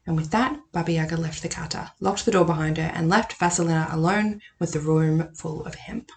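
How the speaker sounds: reading a folk tale aloud, lightly voiced; story reading. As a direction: read the passage to the viewers like a storyteller. Reads a passage from the book.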